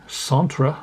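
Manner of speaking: Centre said the French way, nasal French a; mock French Centre; light French accent on Centre. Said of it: "My French accent is amazing".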